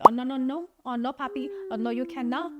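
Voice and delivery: half-joking Latina accent, put on badly; horrible Latina accent. Eva shutting down the fake romance, in a bad Latina accent. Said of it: "That's a horrible accent".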